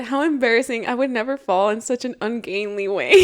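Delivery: haughty disdain. Retold or imitated. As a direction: look down on him. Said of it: "The gargoyle tutted".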